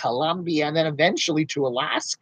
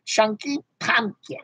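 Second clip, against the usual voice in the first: whispered name; 5 semitones higher, slower than usual. Acted. Host whispering a viewer's name back. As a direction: breathe the name secretively.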